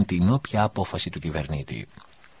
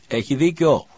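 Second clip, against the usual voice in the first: much higher, loud shout; shout from the crowd; 9 semitones higher, 6 dB louder than usual. Acted. Someone in the crowd backs the priest, shouting. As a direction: yell agreement from the back. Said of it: "φώναξε κάποιος από το πλήθος".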